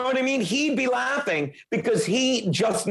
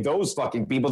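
fast, lower clarifying aside; quick aside; 5 semitones lower than usual. Real, not acted. Comic clarifying whom he doesn't mean, quick aside. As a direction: toss it off quickly as a correction.

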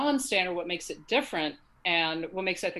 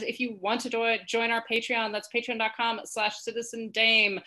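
all in one breath; 3 semitones higher than usual. Real, not acted. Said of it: "I managed to do that all in one breath".

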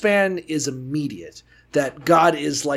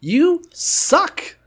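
whiny angry rant; 5 semitones higher than usual. Retold or imitated. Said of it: "he's just like".

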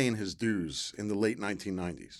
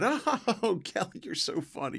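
sarcastic; 9 semitones higher, slower than usual. Retold or imitated. Actor to friend suggesting Stinky Fisher, sarcastic. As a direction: act out humoring a teasing friend.

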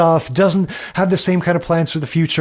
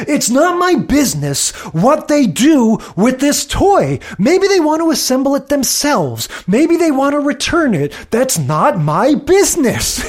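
higher put-on Nick voice leaning on business; imitating Nick; 8 semitones higher than usual. Podcast host imitating Nick insisting it's not his business, higher mock voice. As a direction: mimic him stressing business. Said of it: "he just keeps emphasizing that word business".

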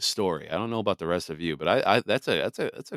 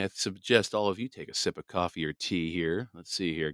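while sipping a drink; 5 dB quieter than usual. Real, not acted. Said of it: "Let me take a sip of coffee".

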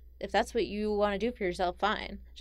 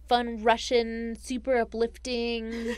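slow, drawn-out mock enthusiasm; deadpan sarcasm stretched out slowly; sarcastic; 3 semitones higher, 4 dB louder, slower than usual. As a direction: savor each word with heavy irony. Sarcastic praise of grim folktale.

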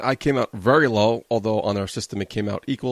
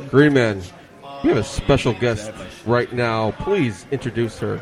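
sloppy tipsy host voice, words running together. Real, not acted. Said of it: "talking like a drunk asshole".

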